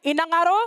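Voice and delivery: Inangaro, syllabes nettes i-na-nga-ro, montée finale; Cook Islands word. Shown as a demonstration. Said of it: "You need to repeat after me".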